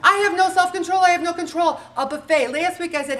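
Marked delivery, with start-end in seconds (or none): 0.0-1.8 higher, louder hammed-up wail; mock despair. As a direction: play the helpless dieter. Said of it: "How many times do we feel out of control".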